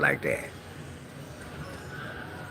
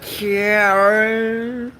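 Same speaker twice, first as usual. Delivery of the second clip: higher, stammering K- K- Karen; mock stammer; 5 semitones higher, slower than usual. Her fumbling aunt's name, higher stammering. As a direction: trip over Karen nervously.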